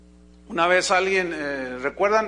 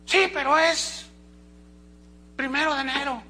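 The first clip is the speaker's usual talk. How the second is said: acting out the objecting brother; mock objector's retort; 8 semitones higher than usual. Preacher mimics a brother objecting to New Year.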